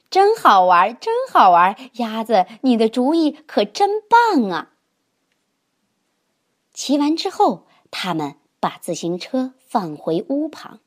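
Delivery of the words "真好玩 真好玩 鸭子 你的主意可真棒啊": many voices in unison. Acted. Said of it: "它们异口同声地说".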